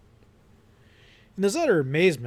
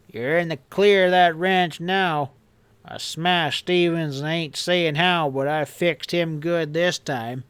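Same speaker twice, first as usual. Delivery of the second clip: excited bragging; 3 semitones higher than usual. Acted. Henchman boasting to his boss, eager and gloating. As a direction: crow about the deed to the boss. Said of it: "Epp interrupted excitedly".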